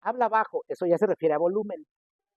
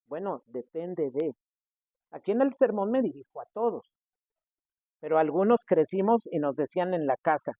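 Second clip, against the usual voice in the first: normal talking voice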